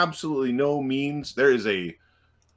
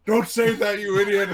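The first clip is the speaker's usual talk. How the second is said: higher, louder orc snapping at a friend; scolding orc; 10 semitones higher, 6 dB louder than usual. Acted. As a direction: snap at him like an angry orc. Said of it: "a different orc said".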